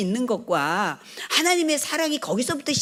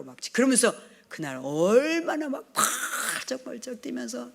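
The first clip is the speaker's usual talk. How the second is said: usual speaking voice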